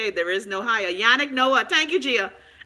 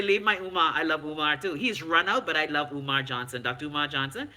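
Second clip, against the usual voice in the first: quoting a viewer; 9 semitones lower, 4 dB quieter than usual. Retold or imitated. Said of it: "Daniel say".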